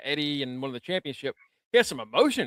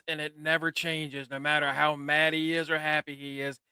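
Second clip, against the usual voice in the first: mock Rey monotone; 5 dB quieter than usual. Shown as a demonstration. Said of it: "talks like this".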